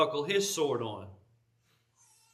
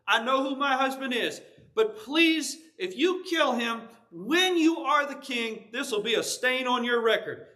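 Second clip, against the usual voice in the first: pleading Abigail; 4 semitones higher than usual. Retold or imitated. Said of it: "she falls down... she says".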